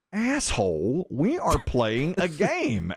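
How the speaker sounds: mock scolding. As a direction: imitate an exasperated quizmaster scolding someone. Angry quizmaster scolding him, retold.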